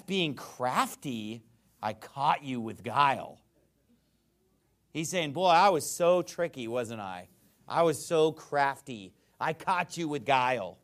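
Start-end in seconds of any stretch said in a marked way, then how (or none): 0.0-3.4 slow, drawn-out mock confession; sarcastic. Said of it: "So he's being sarcastic". 5.3-10.8 mock confession with punched words; sarcastic. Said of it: "So he's being sarcastic".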